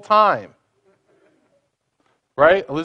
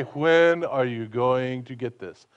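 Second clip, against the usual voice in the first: slow, weary, exasperated; mock impatient parent; fed-up scolding; 4 semitones lower, 3 dB quieter, slower than usual. Shown as a demonstration. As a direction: sigh the question out as if fed up. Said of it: "he doesn't say".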